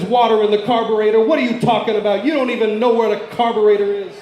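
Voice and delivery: mildly exasperated husband; mock exasperation. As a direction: scoff in disbelief, lightly acted. Husband scoffs at wife on phone.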